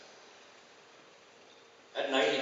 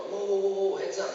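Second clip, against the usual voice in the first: sharp, higher call to halt the play; calling out to stop play; 7 semitones higher, 3 dB louder than usual. Retold or imitated. Coach stopping a kids' game, calling out a warning. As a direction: yell a quick warning across the ice.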